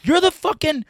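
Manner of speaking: high, loud excited stranger voice; a guy recognizing a comedian on the street, high and loud; imitating a stranger. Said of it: "he was like".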